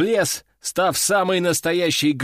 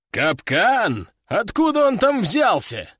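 puzzled, jumping higher on the question; surprised; 5 semitones higher, slower than usual. A narrator's reading. General hears of a trap from his sergeant, surprised. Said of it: "удивился мужчина с усами".

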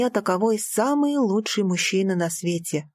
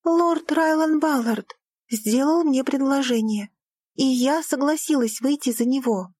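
proud declaration; 5 semitones higher than usual. Acted. Daughter to father, declaring proudly. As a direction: announce the engagement.

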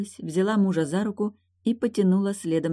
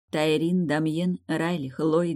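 ordinary delivery, nothing marked

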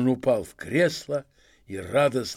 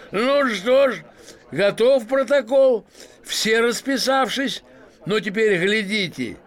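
loud, much higher, slow; triumphant; 8 semitones higher, 5 dB louder, slower than usual. Acted. Masked man counting before unmasking, triumphant. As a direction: build up to the big reveal.

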